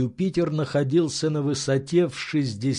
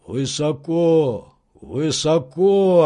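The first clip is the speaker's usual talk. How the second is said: slow, drawn-out servant's answer; 2 semitones higher, 3 dB louder, slower than usual. Acted. Servant answering his master from the treetop, slow. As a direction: stretch each word out slowly.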